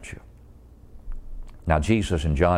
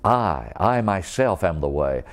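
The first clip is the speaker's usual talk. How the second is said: "I, I myself" with the first "I" leaned on, slowish; emphatic I myself. Shown as a demonstration. Preacher stressing "I myself" for the congregation, emphatic. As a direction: press on "I" and "myself". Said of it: "by being emphatic".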